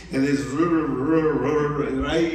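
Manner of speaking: low mumbled Rocky voice, words slurred together; Rocky impression. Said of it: "she says I sound like Rocky".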